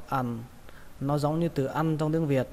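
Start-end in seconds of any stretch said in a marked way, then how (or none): 0.1-0.4 "ăn" dropped in tone; falling tone on "ăn". Shown as a demonstration. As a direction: let the voice sink on "ăn". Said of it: "Các bạn xuống giọng nó".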